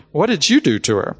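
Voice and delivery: wife's accusing question. Retold or imitated. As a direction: lightly imitate a wife putting the blame on her husband. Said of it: "And my wife says to me".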